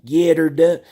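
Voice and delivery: imitating the comic's battle cry, rising to loud; Larry the Cable Guy catchphrase. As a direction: build the catchphrase to a crowd-pleasing shout. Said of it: "anytime he said".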